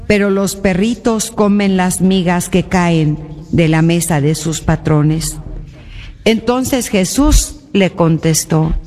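measured scripture reading, phrase by phrase with pauses; solemn Gospel reading. Acted. Reads the Gospel aloud. (lectura solemne del Evangelio)

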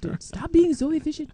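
high, playful priest voice, ribbing a friend; mock Father Dominique. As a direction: tease like a laid-back priest. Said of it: "Father Dominique will tell you".

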